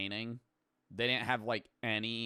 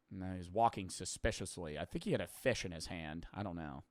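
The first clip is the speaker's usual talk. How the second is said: softer, lower mock witness, rambling unsure; vague witness; 4 semitones lower, 5 dB quieter, faster than usual. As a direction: mumble like a useless tipster. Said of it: "I'd be like".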